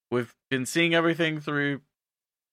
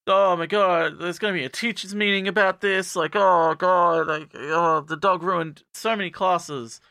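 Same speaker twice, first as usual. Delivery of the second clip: mock distress; 4 semitones higher than usual. Teacher about the dog ruining classes, mock distress. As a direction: lament it with stretched-out oh gods.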